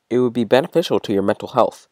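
menacing, mocking yandere voice; cold, unhinged cruelty; unhinged yandere girl. Voices Yuri snapping.

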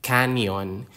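"Canyon" with a clear n-y glide; "Canyon" said carefully to show the enye sound. Shown as a demonstration. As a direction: model the ny in "Canyon". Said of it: "pronounced like the N Y in canyon".

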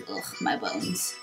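low, soft groan of aches; creaky-boned elderly grumble; achy old groan. Acted. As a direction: groan it wearily, far down in pitch. Old character complains of aching body.

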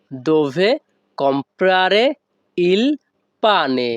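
dove, comprare, il, pane each set apart with small pauses; broken word by word. Shown as a demonstration. Teacher breaking the Italian phrase apart for students, word by word. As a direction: split the phrase into single words for the learner. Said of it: "এখানে যদি আমরা ভেঙে ভেঙে বলি".

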